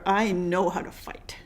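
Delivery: slow whispered threat, no voice at all; mock menacing whisper. Host jokingly threatening bad Americans in a whisper. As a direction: lean in and breathe the threat.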